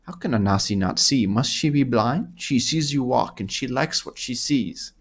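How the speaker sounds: lightly voiced flirty Khajiit accent; hint of a Khajiit accent, playfully admiring. Anasi likes what she sees, tentative Khajiit accent. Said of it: "is this a good Khajiit accent?".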